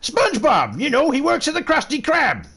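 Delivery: yelling for a missing friend, squeaky voice; high shrieked cartoon call. Prank caller calls out for SpongeBob, high shrieking voice. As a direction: squeal the name, high and loud.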